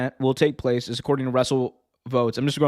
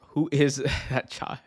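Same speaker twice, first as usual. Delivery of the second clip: mock-slow wrestler question, cracking up; lightly voiced wrestler, drawn out with a laugh; Jericho. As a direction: play the incredulous wrestler, barely holding in laughter. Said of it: "Jericho was like".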